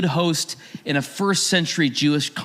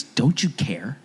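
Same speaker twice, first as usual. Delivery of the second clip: mild hurt plea. Retold or imitated. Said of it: "She says to Jesus".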